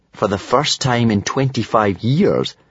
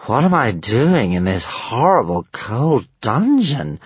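dragon voice; 3 semitones higher, slower than usual. Acted. Stormfly's voice.

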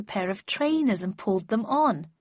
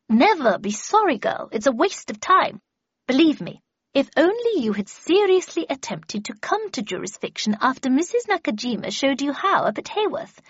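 put-on louder, higher, haughty old mistress; scolding Miss Havisham; 5 semitones higher, 5 dB louder than usual. Miss Havisham scolds the apprentice for saying sorry, haughty. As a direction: lecture a hopeless pupil with impatience.

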